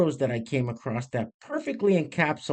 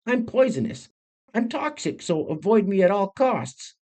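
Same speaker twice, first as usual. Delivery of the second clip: higher, mock-menacing warning; 3 semitones higher than usual. Creator voicing poisonous animals warning others off. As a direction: voice the bright frog saying keep away. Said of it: "basically what it means is".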